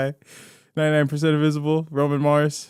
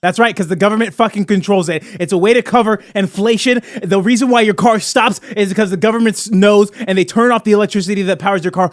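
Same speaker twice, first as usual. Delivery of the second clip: raised, higher voice, emphatic pitch; conspiracy rant; 5 semitones higher, 3 dB louder than usual. Pretend. Host pitching a gasoline conspiracy to co-hosts, emphatic rant. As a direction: lay out the cover-up with insistent force.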